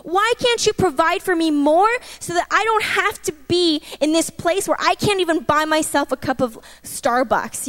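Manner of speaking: retold frustrated complaint to God; mildly exasperated, imploring; frustrated, angry plea. Complaining to God about being unable to provide for herself, mildly angry. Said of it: "so frustrated with God and so angry".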